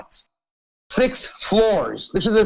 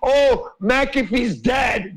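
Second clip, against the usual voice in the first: drawn-out, higher mock announcement; mocking the wife; 6 semitones higher, much slower than usual. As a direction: sneer it out like her news statement. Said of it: "and the media and said".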